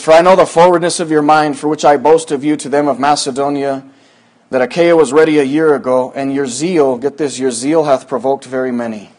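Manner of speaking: measured Bible reading; scripture reading. Acted. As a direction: read the verse with gravity.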